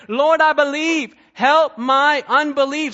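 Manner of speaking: a father's desperate plea, no real tears; tearful cry. Retold or imitated. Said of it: "cried out with tears and said".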